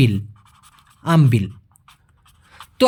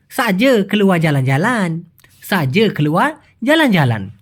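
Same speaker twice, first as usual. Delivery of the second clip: Malaysian accent. Shown as a demonstration. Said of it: "খোদ মালয়েশিয়ানদের মতো টান দিয়ে বলতে গেলে".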